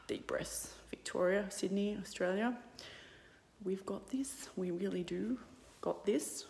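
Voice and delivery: soft reassuring whisper; calm them in a whisper. Real, not acted. Calming whisper to viewers.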